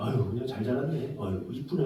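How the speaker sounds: soft, offhand, perfunctory tone.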